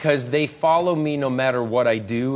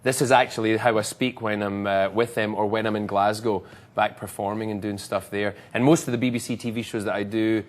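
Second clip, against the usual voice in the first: Scottish accent. Shown as a demonstration. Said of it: "you're gonna want me to do the Scottish accent".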